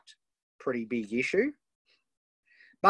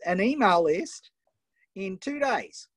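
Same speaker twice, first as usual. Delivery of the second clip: incredulous; 8 semitones higher, 5 dB louder than usual. Real, not acted. Coach repeats in disbelief.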